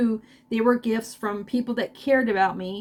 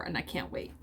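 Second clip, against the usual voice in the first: hushed whisper; 5 semitones lower, 14 dB quieter than usual. Real, not acted. Softly overcome after thanks.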